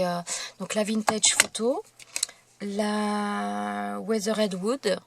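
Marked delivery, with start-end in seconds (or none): 2.6-5.0 "la Weathered Wood" said very slowly with French sounds; English paint name in French accent. Real, not acted. Crafter naming her ink, slowly sounding out "Weathered Wood" with a French accent. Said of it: "je suis désolée pour mon accent".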